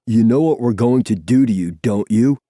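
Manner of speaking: raspy bully taunting his captive; menacing rasp. A narrator's reading. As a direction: rasp a threat into someone's ear. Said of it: "Zephyr rasps in my ear".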